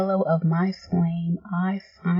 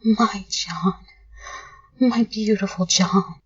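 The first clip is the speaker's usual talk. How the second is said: shaking whisper. Acted. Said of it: "whisper in a shaking voice".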